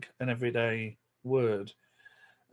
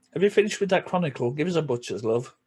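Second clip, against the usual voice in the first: Yorkshire accent; 3 semitones higher, faster than usual. Shown as a demonstration. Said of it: "But in Yorkshire".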